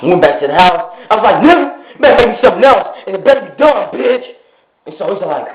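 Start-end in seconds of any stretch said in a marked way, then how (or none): 1.4-4.2 fast, higher-pitched angry order; retold bossy threat. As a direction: act out an impatient demand. Retold order to cook again.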